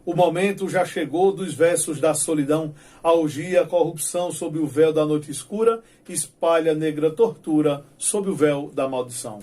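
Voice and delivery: declaiming dark verses with steady rhythm; poem recital. Shown as a demonstration. Teacher reciting Leandro's midnight stanza, solemn recital. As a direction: read it like a solemn cordel poet. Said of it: "ele diz assim".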